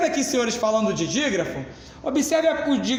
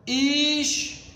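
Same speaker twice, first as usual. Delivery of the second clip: "História" as his, tó, ria, slow with gaps, tó stretched; syllable-by-syllable "História"; 5 semitones higher, slower than usual. Shown as a demonstration. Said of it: "Vamos dar um exemplo de paroxítona".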